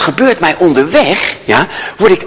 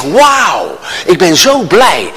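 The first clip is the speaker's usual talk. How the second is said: mock gushing; much slower than usual. Retold over-the-top gratitude to cop.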